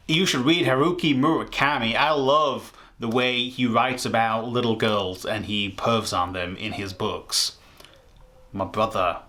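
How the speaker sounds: lightly put-on American fan accent; changed-up American accent. Fan recommending a book to a friend, in a put-on American accent. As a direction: switch to a different mock American accent. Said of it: "Let me, let me change it up".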